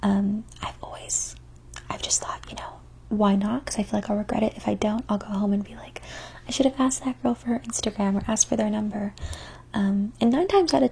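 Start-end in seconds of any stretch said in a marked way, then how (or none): 0.0-9.1 ASMR whisper. Acted. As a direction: whisper close to the mic.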